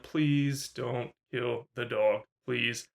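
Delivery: slow, hushed mock plea; lightly voiced anxious begging, drawn out; nervous plea. Viewer begging the film to spare the dog, nervous plea. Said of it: "I was nervous".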